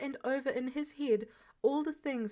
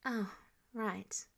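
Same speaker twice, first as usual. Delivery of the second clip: whispered; 5 dB quieter than usual. Acted. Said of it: "Captain America whispered".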